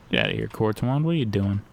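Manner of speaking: mock Southern accent. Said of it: "what accent that was".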